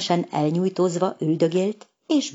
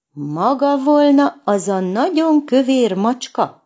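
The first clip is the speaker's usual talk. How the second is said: higher, louder indignant kitten voice; offended girl cat scoffing at a skinny tomcat; angry question; 7 semitones higher, 5 dB louder than usual. A narrator's reading. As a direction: demand it in outrage, looking him up and down. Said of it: "kérdezte dühösen".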